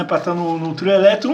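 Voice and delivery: normal talking voice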